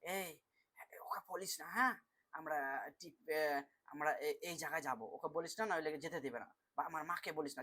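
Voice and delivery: secret whisper. Shown as a demonstration. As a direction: tell a friend a secret so no one hears. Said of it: "ধরো ফিস ফিস করি না আমরা". (চুপিচুপি ফিসফিস করে বলা)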